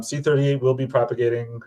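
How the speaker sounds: stiff official robot voice. Real, not acted. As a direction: read it like a careful robotic statement. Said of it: "Now I have to sound like a robot".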